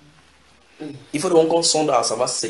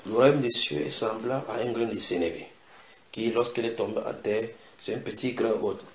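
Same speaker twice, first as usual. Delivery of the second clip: softer, unhurried teacher's voice; calm quoted teaching; 7 dB quieter than usual. Acted. Jesus teaching while Marthe bustles about, calm and soft. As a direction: lightly voice a calm teacher, softly.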